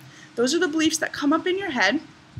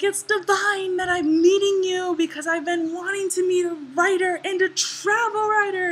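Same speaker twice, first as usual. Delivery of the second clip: imitated gushing fan, pitched higher; gushing admiration; 7 semitones higher than usual. Greek woman to travel writer, gushing admiration. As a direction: imitate her delight at the meeting, high. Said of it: "there was so much love".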